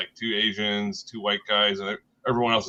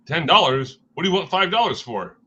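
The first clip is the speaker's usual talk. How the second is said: stingy dad voice; 7 semitones higher, 5 dB louder than usual. Retold or imitated. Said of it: "responds by saying".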